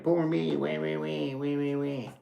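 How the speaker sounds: lightly voiced mock whimper; mock whining. Mocking someone playing victim with a half-hearted whine. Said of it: "that's all I can hear is crying".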